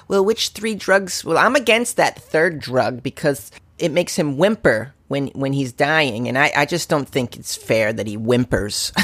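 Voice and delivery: slow, precious mocking voice of an objector; slow and fussy, mocking the squeamish; prissy mock voice. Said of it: "we don't have to have an argument about".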